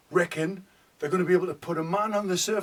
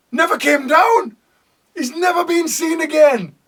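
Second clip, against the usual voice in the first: excited; 5 semitones higher, faster than usual. Acted. Excited tale of Benny's fall.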